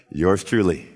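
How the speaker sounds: low chuckled punchline; laughing. Retold or imitated. Preacher mocking his own tackle, laughing. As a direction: laugh it off wryly.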